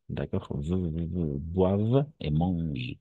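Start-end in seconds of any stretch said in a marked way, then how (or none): 1.4-3.0 boivent et mangent slowly, endings silent; slow, careful boivent et mangent; model pronunciation. Shown as a demonstration. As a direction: boivent et mangent, the ENT ending left unsounded. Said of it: "Parce que E N T à la fin".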